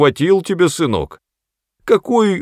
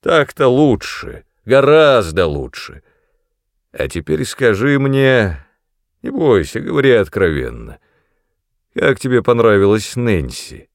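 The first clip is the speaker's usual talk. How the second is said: mock-cheerful menace; eerie false cheer; 2 semitones higher, 4 dB louder than usual. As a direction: grin through the threat. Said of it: "с жутким подобием весёлости". (зловещая весёлость)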